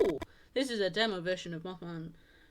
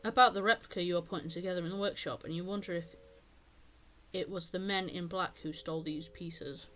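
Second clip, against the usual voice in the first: measured story-reading voice; game narration. A narrator's reading. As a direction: read the story text aloud, evenly. Reads game text aloud.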